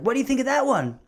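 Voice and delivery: high, laid-back stoner voice; high-pitched stoner offering a sample; imitating the stoner. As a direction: put on the friendly pothead salesman. Imitating the weed shop guy.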